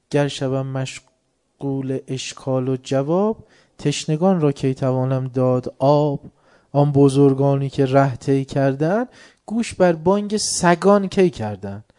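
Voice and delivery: slow, measured verse; poem recital. Acted. Preacher reciting Rumi verse to congregation, measured. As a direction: recite the couplets with weight.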